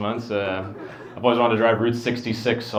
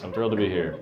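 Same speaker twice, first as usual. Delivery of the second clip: low-key, softer monotone; deadpan thrilled; 3 semitones lower, 5 dB quieter, faster than usual. Shown as a demonstration. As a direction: profess delight in a dull, unexcited voice. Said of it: "my voice is pretty boring sounding".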